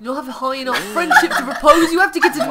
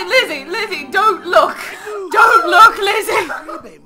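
high, urgent comic wail; mock-panicked plea; 6 semitones higher, 4 dB louder, slower than usual. Real, not acted. Player begging Lizzie not to look, mock panic. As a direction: plead high, half laughing.

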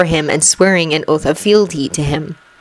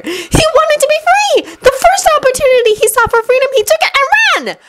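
heated insistence. Acted. Hermione arguing heatedly with Ron.

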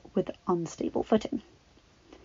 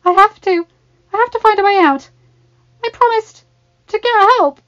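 high, loud urgent plea; desperate cry; 13 semitones higher, 14 dB louder than usual. A narrator's reading. Child insisting on a way out, desperate cry.

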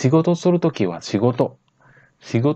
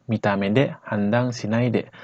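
slow; slower than usual. Shown as a demonstration. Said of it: "Jadi kalau kita percepat".

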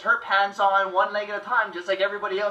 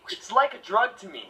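mock pained Edward. Shown as a demonstration. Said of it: "talk real quietly and sound like you're in pain".

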